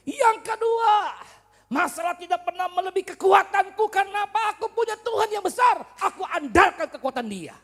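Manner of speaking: high, shouted declaration of faith; loud, impassioned sermon climax; full-force preaching. Real, not acted. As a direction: proclaim it at the top of your voice.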